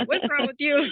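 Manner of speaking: high, loud mock what's-wrong-with-you voice; a stranger's judging high squeal; side-eye lady. Lady at the sink mocking her, high and loud. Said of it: "that side eye".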